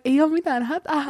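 imitating an amused stranger, laugh in the voice; retold laughing reassurance. Stranger reassuring her after near collision, laughing. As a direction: brush it off through light laughter. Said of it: "se mieskin rupesi nauraa".

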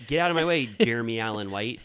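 joking fan pushing past a movie star; mock shout. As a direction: bark it like shoving a movie star aside. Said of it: "everyone was like".

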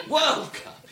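"World" lifted and leaned on; mock stress on World. Shown as a demonstration. Mocking the American habit, stress on "World". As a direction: push "World", throw away "Cup". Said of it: "Why are you stressing the modifier".

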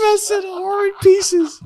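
slow high laughing repeat; giggling through the words. Real, not acted.

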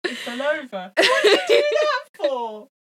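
mock scold him, half laughing; high character voice.

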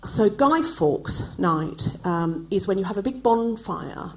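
slow, a touch of a condescending English explainer; patronising Brit explaining. Retold or imitated. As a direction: explain it slowly as to a foreigner. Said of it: "they would say to you".

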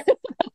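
short amused laugh; a quick burst of laughter. Real, not acted. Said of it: "Yeah, Memo's laughing".

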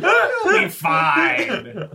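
very high, drawn-out shout; shouted reassurance. Acted. Sebastian brushes off a companion's protest, long high shout. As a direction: holler it long and loud over the protest.

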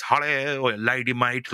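a hint of dad's chirpy greeting; light imitation of dad. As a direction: lightly voice dad saying hello. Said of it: "the way he speaks".

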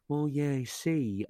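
tradesman voice. Retold or imitated. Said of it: "you sound like a tradesman".

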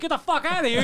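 high-pitched mock yell; imitated screaming. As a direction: throw him out, acting out a furious clerk. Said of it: "and they're screaming at him".

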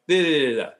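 a light imitation of a steady, lulling, even drone; mock guru voice that never rises; Zach impression. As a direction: rattle it off in one unvaried soothing tone with vocal fry. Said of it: "That was pretty good".

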